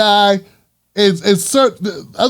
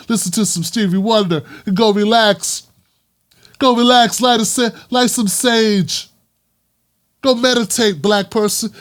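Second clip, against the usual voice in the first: mock condescending white person. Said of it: "Then you are getting emotional".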